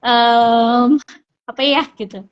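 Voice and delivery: drawn-out "Em" and a pause before the words; halting, searching. Shown as a demonstration. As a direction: act out hunting for words in a new language. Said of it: "Pasti kan masih terbata-bata". (terbata-bata sambil mikir)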